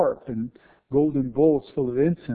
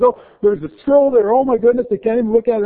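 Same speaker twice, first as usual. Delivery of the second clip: mock amazement; 11 semitones higher, 11 dB louder, faster than usual. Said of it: "and he goes".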